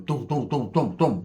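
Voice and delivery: evenly repeated gunshot thuds; imitated gunfire. Fleeing while they were dumping, imitated gunfire. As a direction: punch out each shot as a short thud. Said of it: "Motherfuckers was dumping".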